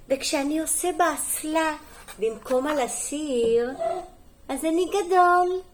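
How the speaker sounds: lively, sing-song picture-book reading; story reading to children. Acted. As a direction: read it clearly to small children, lifting the key words. (הקראת סיפור לילדים)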